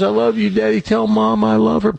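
a hint of a small son saying goodbye; child's farewell. Son's last words to father.

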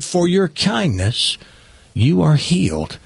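slow, measured pronouncement; solemn healer. Acted. Robed man healing the paralyzed customer, solemn. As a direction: grant the healing slowly, with weight. Jesus figure heals the stroke victim.

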